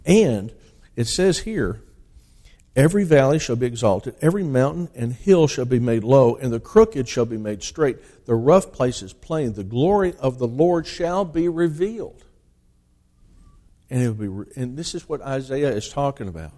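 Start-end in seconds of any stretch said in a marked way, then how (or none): 2.8-12.2 louder, declaimed Bible verse; scripture reading. Acted. Preacher reading Isaiah to the congregation, loud scripture reading. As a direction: proclaim the verse with force.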